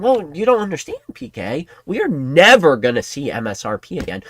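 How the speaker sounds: a hint of a squeaky, smug pundit; mocking Kimmy. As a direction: parody the doom forecaster. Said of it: "um, Kimmy?".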